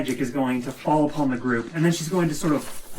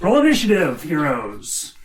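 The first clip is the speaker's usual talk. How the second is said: dramatic announcement; 2 semitones higher, 4 dB louder than usual. Acted. GM calls start of battle.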